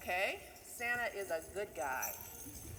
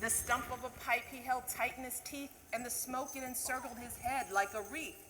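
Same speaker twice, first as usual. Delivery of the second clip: lively storybook reading of a Christmas poem; a teacher reading The Night Before Christmas to the class; reading to children; 3 semitones higher than usual. Acted. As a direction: read it like a bedtime story to kids.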